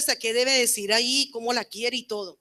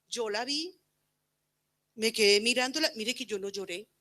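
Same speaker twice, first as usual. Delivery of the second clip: usual speaking voice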